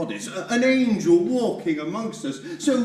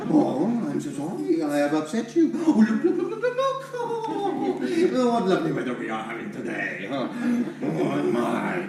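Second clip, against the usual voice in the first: mock politeness; 3 semitones lower than usual. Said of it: "How should one speak in front of a lady".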